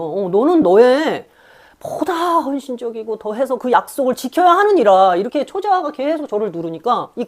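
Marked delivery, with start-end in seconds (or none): 0.0-5.2 slow, loud, solemn commanding voice; archaic stern superego. Retold or imitated. Superego lecturing her, slow loud command. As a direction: lay down the law like an old king. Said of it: "초자가 계속 얘기하고 있는 거예요".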